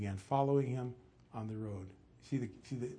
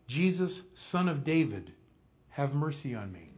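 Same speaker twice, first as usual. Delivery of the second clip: raised, pleading call, easing at the end; mildly acted cry for mercy; 2 semitones higher, 5 dB louder than usual. Blind beggar calls to the Messiah, mild crying out. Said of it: "he begins to cry out".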